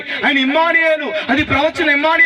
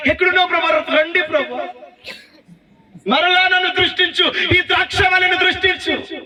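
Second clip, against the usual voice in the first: hammed-up whiny prayer, pitched higher; mock pleading; 5 semitones higher than usual. Preacher mocks believers who beg God to come, hammed-up higher plea. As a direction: parody a begging believer.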